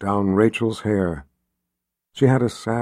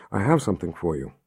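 soft and a bit quicker, soothing; 4 semitones lower, 5 dB quieter, faster than usual. A narrator's reading. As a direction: coax her gently, barely above a murmur. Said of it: "in that soothing voice she had".

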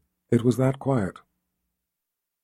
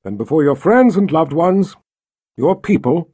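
formal, lightly projected officiant; measured wedding oratory; ceremonial pronouncement; 3 semitones higher, 4 dB louder than usual. A narrator's reading. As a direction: declare it before the gathered crowd. Richard pronounces them wed.

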